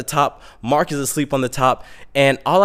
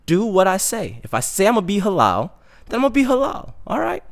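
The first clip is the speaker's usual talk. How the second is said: high-pitched, rising self-justification; squeaky protest of resolve; mock insistence; 8 semitones higher than usual. Mock insistence on keeping his word.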